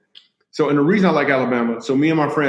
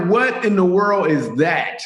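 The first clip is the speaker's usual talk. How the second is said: laughing disbelief; 4 semitones higher, slower than usual. Retold or imitated. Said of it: "I'm like".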